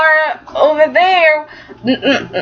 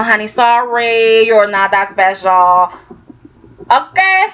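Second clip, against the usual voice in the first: sassy telling-off; 3 semitones lower than usual. Pretend. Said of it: "I'm waiting for somebody to tell her".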